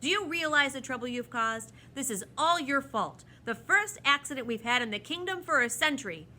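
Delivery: loud, indignant telling-off, rising in heat; annoyed scolding. A narrator's reading. The proc blames the children for the accident, annoyed scolding. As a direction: lay the blame on them loudly. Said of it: "foot in annoyance".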